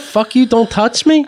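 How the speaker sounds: high, slow mild mock yell; retold screaming. He quotes the people screaming in the session, mild mock yell. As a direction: imitate a scream without real volume. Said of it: "what are people screaming about".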